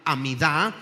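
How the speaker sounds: "Amidá" with the stress on the final A, a-mi-DÁ; stress on last A. Shown as a demonstration. Preacher teaches the congregation how to say "Amidá", stressing DÁ. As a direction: say "Amidá" landing on the last syllable. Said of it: "acento en la última A".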